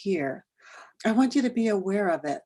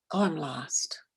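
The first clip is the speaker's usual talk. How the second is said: soft, breathy little aside, brushing it off; mild mock lost; 3 semitones lower, 7 dB quieter, slower than usual. Speaker mocking a mild lost feeling, softly. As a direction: say it like a small shrug of being lost. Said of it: "And it's not like".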